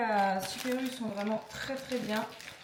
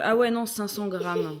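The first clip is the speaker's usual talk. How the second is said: surprised correction; 8 dB louder than usual. Real, not acted. Correcting the weight reading.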